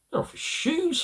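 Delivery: put-on high little-girl reply; little girl Wendy. A narrator's reading. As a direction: pitch it up like a young girl. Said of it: "said Wendy".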